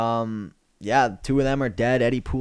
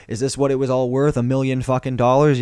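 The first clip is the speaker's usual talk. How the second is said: louder, indignant rant; mock outraged rant at the pornographers; 2 semitones higher, 4 dB louder than usual. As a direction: rail at them in disbelief. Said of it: "type of rant".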